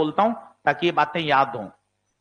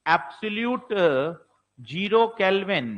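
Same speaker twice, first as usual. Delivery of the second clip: slow dramatic reading; much slower than usual. Shown as a demonstration. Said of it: "अगला प्रश्न सुनोगे तो मजा आ जाएगा".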